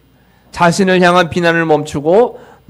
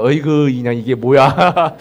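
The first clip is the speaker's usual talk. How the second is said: disgusted groan; 2 semitones lower than usual. Retold or imitated. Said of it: "그러지 마시고".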